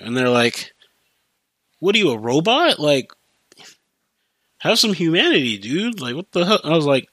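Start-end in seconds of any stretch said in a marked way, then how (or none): 1.8-6.6 higher, mock-outraged voice of the tall guy; protesting man. Tall man protesting the worker's cold warning, higher and outraged. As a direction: whine at him like he's heartless, pitched up.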